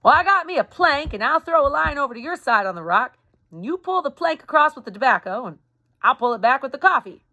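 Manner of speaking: put-on a young Reb shouting over the river; lightly voiced Southern soldier calling out; Southern boy calling. Reb calling plan across river.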